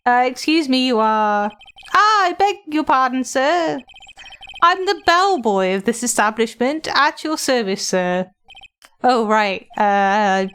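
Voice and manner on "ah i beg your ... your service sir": fawning hotel bellboy, voice raised high; polite bellboy. Acted. Bellboy character voice.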